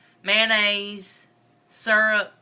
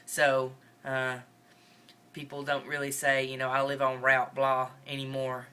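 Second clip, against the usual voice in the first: Northern Mississippi accent. Real, not acted. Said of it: "try really hard for this whole video".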